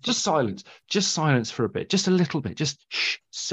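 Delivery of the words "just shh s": soft shush; soft, unvoiced shush to quiet the room. Real, not acted. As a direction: hush them with a soft shh. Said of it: "I'm shushing you now".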